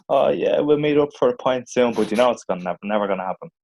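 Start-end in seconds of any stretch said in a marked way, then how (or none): 0.1-1.9 mildly put-on matey promise, pitched up; feigned friendliness. Fobbing off an old schoolmate, feigned friendliness. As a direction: make an empty promise sound friendly, higher voice.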